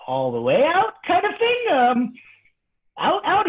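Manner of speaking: squeaky high alarmed voice; mock panic. Student squeaking in mock panic about getting choked out.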